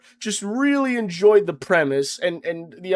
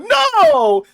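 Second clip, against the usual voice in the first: mock yell; 13 semitones higher, 6 dB louder than usual. Retold denial in quarrel.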